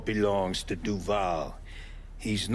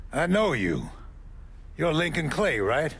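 surprised recognition; 7 semitones higher than usual. Acted. Suddenly recognising Lincoln Clay.

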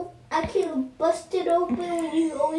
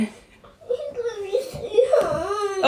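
slow, half-laughing whiny beg; laugh-crying plea; slower than usual. Real, not acted. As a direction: beg while giggling and whining. Brother keeps begging.

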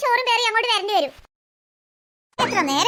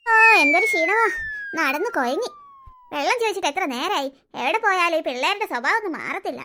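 put-on lower, weary old grandmother grumbling about her daughter-in-law; grumbling grandmother voice, lower and tired; scheming grandmother; 4 semitones lower than usual. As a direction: sigh and complain like a tired, bossy old woman. Grandmother complaining alone.

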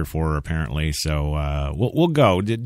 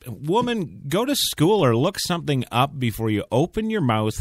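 scolding; 6 semitones higher than usual. Real, not acted. Host scolds a radio woman.

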